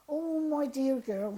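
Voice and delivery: put-on slow, lightly Welsh dear-girl greeting; a faint touch of a Welsh lady's lilt; mild imitation of a Welsh accent. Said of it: "she said in her lovely little accent".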